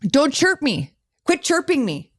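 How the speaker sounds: mock Minnesota twang, rising on chirping; hammed-up Upper Midwest accent; Fargo accent. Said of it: "that's like Fargo".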